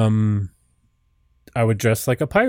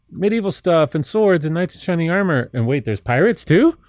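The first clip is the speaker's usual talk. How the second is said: put-on excited teenager; 7 semitones higher than usual. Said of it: "I was like".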